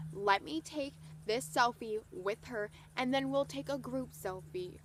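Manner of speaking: retold pointed sass; sassy. Singer overrules the no on a selfie, imitated sass. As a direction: lay it down with mild attitude. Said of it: "More sass than I've ever imagined".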